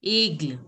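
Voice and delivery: ay sound at the start of aigle; French aigle. Shown as a demonstration. Teacher repeating for the class, aigle said the French way. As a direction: model aigle with a falling end. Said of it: "is going to be pronounced as aigle".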